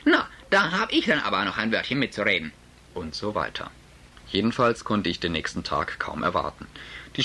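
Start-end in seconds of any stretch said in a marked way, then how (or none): 0.1-2.5 ruhiger, nur leicht gehoben; gelassen trotzig. Acted. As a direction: setz trotzig ohne Lärm nach. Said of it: "eine recht laute Unterhaltung". (trotzige Erwiderung, kaum lauter als sonst)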